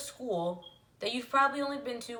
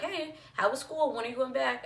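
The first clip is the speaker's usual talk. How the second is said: mocking people's cheery questions; 4 semitones higher than usual. People asking about school.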